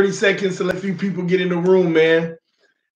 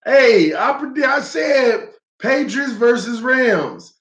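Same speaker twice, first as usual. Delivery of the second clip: excited; 2 semitones higher, slower than usual. Real, not acted. Boasting about correct prediction.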